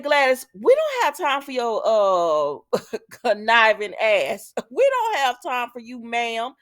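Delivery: loud, fed-up scolding with laughs breaking in; exasperated yell at Gladys. Retold or imitated. A recapper yelling at the villain on screen, loud and fed up. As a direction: tell her off, half laughing.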